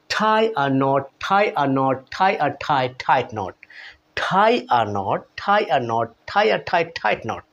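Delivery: tie a knot, tight knot with a puff on every t; tongue twister with aspirated t. Shown as a demonstration. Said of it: "চলুন আমরা tongue টুইস্টারগুলো দেখে নিই".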